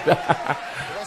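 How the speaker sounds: soft breathy laughter; chuckle. Real, not acted. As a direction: laugh on quietly. Amused by low kick.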